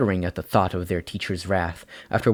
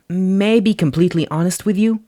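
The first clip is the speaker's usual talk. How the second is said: quiet, serious question; 10 semitones higher, 5 dB louder than usual. A narrator's reading. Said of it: "she asked quietly".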